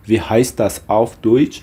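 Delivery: slow, measured German for learners; slow model phrase. Shown as a demonstration. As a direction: model the phrase slowly, word by word. Teacher repeats model question for learners.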